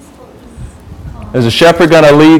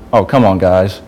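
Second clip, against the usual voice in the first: casual mock quote; 6 semitones lower, 3 dB quieter than usual. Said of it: "Is that what he said?".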